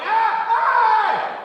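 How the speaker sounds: loud, high desperate scream. Retold or imitated. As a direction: yell to flag down the cab. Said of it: "running and screaming".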